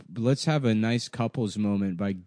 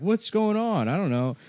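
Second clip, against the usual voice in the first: confused victim; 9 semitones higher than usual. Retold or imitated. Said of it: "You're like".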